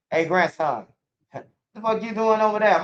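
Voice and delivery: high mock granny scolding. Granny scolding her grandson, high mock voice. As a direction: play his granny scolding him. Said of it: "my granny will be like".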